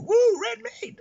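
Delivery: high, loud party whoop; whooping cheer. Retold or imitated. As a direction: cheer him like a hero from the curb. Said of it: "there's all these people".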